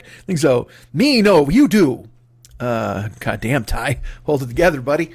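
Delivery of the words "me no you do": quoting a movie line, a bit louder; Caddyshack quote. Retold or imitated. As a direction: say it like the film character. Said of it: "from Caddyshack".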